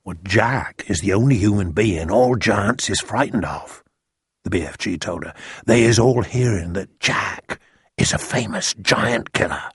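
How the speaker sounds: a hint of a simple friendly giant; lightly voiced BFG. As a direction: explain as a storybook giant, lightly characterised.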